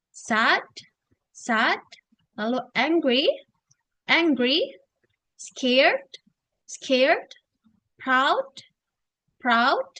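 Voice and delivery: each word modelled clearly, then repeated; teacher's list for learners to imitate; word by word, pausing for repetition; pronunciation drill. Shown as a demonstration. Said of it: "coba mengikuti how do I pronounce it".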